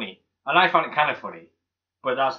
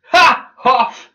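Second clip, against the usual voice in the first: sudden high, loud bursts of glee; re-enacted cinema outburst; loud lone cheer; 13 semitones higher, 13 dB louder than usual. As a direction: whoop it out like the only fan in the cinema. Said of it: "I was the only person going".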